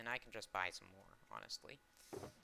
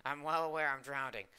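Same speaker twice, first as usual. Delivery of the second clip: laughing; 3 semitones higher, 9 dB louder than usual. Real, not acted. Laughing at drowning in game.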